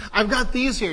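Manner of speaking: high, loud, excited host announcement; Oprah teasing a surprise. Retold or imitated. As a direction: build the suspense like a talk show host. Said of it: "And she says".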